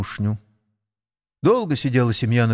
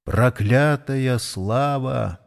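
bitter, drawn-out regret; much slower than usual. Acted. Old jockey's bitter regret.

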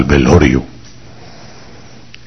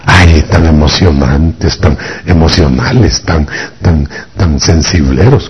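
mock disdain. Mimics critics of emotional weepers.

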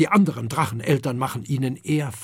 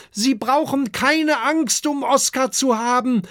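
high, louder reassuring call; calling across; 12 semitones higher, 4 dB louder than usual. Acted. Kokosnuss calling to the worried parents, loud. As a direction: call over to the beach. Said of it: "ruft Kokosnuss zum Strand hinüber".

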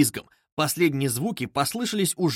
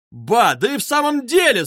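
higher, louder astonished exclamation; surprised cry; 8 semitones higher, 5 dB louder than usual. A narrator's reading. Koch crying out in surprise. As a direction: shout in sudden realisation. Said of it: "закричал удивившийся Кох".

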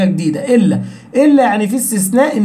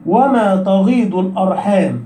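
slow recitation; slower than usual. Shown as a demonstration. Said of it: "بس باستثناء موضعين".

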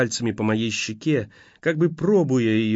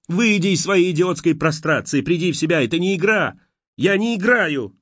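angry demand; 6 semitones higher than usual. A narrator's reading. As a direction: shake him out of his trance. Slaps him, furious demand.

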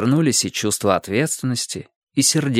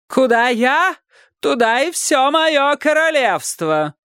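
much higher, proclaiming royal voice; proclaiming king; 13 semitones higher, slower than usual. A narrator's reading. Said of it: "провозгласил король".

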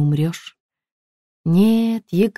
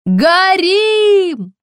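high, loud desperate yell; frantic scream; 13 semitones higher, 6 dB louder than usual. A narrator's reading. Villager shouting to the street that houses burn, screaming. Истошно заорали с улицы.

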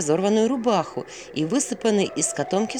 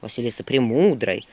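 lightly voiced owl, pitched low; teasing owl; 5 semitones lower than usual. Owl questions Vasilisa's name, mildly teasing. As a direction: needle her about the name.

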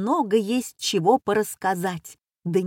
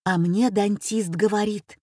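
plain reading voice

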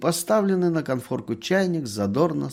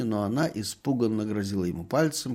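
ordinary delivery, nothing marked

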